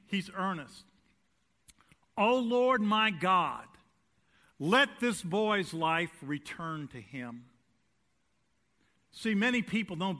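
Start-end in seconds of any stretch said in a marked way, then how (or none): 2.2-7.4 begging prayer. Acted. Elijah pleading over the widow's son, slowing down. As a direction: beg for the boy's life, easing down.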